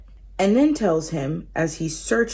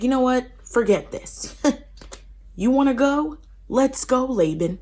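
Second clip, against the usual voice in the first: fed-up challenge; 6 semitones higher than usual. Retold or imitated. Jacob fed up, challenges Laban.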